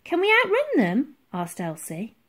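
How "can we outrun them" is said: high, urgent question; anxious young girl. A narrator's reading. Elsie asks about outrunning the ships, urgent. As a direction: ask it pitched right up, urgently.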